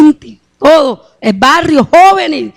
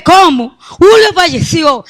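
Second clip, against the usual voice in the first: higher, drawn-out stunned question; retold shocked disbelief; 4 semitones higher, slower than usual. Mother hears that her son's friend Julio died, retold shock. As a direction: relive the disbelief at the news. Reacting to news of a death.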